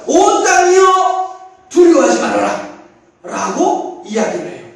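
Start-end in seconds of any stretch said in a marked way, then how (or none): 0.1-2.7 higher, louder, slow proclamation; 온 땅이여 proclaimed slowly and loudly. Shown as a demonstration. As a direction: declare it like the prophet. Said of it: "요엘 선지자는 뭐라고 해요?".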